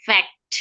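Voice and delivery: ফ্যাক্ট with the t barely touched; flap t demo. Shown as a demonstration. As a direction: say ফ্যাক্ট clearly, final t light. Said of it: "ফ্যাক্টটা হচ্ছে ট্রুটি".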